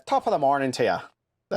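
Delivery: stock mock Irish greeting; Irish accent. Shown as a demonstration. Showing a friend Irish, mock Irish accent. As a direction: put on a stage Irish accent. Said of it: "then you got Irish".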